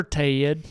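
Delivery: Tayid said as two drawn syllables; Southern Tayid. Retold or imitated. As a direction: stretch Ted into Tay-id. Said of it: "Yes, sir, Tayid".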